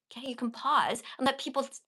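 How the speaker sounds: ordinary talk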